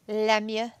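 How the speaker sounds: Lemieux with a French nasal first vowel, le-MYEU; French-accented Lemieux. Shown as a demonstration. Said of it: "With his French accent".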